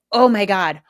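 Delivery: loud, exasperated outburst; exasperated parent. Acted. Parent finding the kid's drawing on the walls, exasperated.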